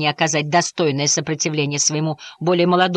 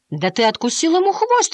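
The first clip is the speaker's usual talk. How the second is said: higher, outraged cry; indignant; 12 semitones higher than usual. A narrator's reading. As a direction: throw the accusation at him in shock. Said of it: "возмутилась Флора".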